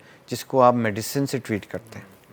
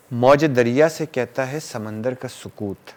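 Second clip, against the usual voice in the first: reciting a verse; slower than usual. Acted. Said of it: "ایک شعر یاد آ گیا".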